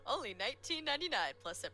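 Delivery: light infomercial voice. Pretend. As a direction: rattle off the price like a TV ad. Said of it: "I know how to do the infomercial voice".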